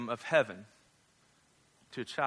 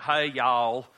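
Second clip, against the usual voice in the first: put-on Southern accent; 2 semitones lower, 4 dB louder than usual. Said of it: "consider your accents".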